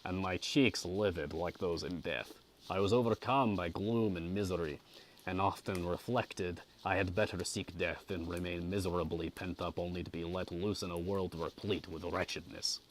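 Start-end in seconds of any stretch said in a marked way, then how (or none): 1.3-12.8 measured audiobook reading; story narration. A narrator's reading. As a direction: read a classic novel aloud with care. Reads the novel aloud.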